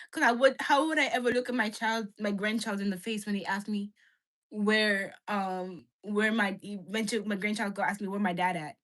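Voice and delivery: put-on Nigerian accent. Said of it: "Your dad sounds Nigerian".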